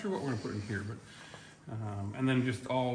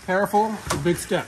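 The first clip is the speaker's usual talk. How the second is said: loud warning; 4 semitones higher, 7 dB louder than usual. Real, not acted. Warning as they step out.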